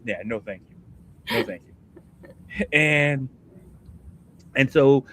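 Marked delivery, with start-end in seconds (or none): 0.0-2.6 slow, soft, dragged-out no thank you; drawn-out refusal. Pretend. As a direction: let the refusal sag away, very slow and hushed. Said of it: "And I gotta do that for how many minutes?".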